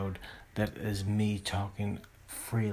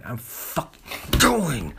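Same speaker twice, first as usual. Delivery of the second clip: "doing" stretched out, higher and much louder; emphatic stress on doing; 4 semitones higher, 8 dB louder, slower than usual. Real, not acted. Podcaster insisting he is not merely trying, loud stress on "doing". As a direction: punch "doing" slowly, with a raised voice.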